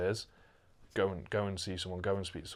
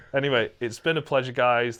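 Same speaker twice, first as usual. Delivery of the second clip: laughing; 4 semitones higher, 10 dB louder than usual. Real, not acted. Still laughing while signing off.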